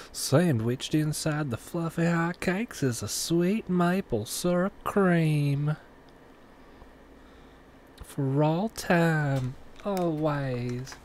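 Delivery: high, slow sing-song host voice; Miss Minutes. Pretend. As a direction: gush it like a cartoon mascot. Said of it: "let me do it like Miss Minutes".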